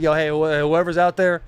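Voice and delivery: emphatic mock apology; retold pleading apology. Apologizing to the air, retold pleading. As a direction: plead with whoever is out there, playing it up for the story. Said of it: "I start apologizing to the air".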